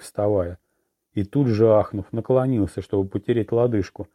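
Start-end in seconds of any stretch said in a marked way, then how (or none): none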